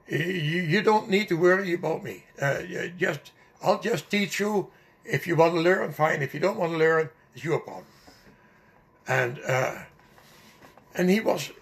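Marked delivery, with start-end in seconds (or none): 0.1-7.9 huffy disclaimer, voice a little raised, settling at the end; ticked-off teacher, retold. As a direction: imitate a mildly fed-up teacher. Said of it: "he was really ticked off".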